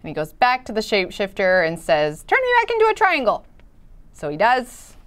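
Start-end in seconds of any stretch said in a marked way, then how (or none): 2.2-3.5 pleading shape voice. Acted.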